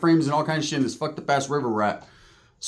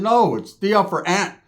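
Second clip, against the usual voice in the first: slow correction; 3 semitones higher, slower than usual. Retold or imitated. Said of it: "I said".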